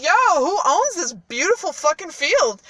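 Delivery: loud, high, impressed royal hail; hammed-up impressed king; excited king. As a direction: call out in mock amazement as the king. Retold king hails peasants, impressed.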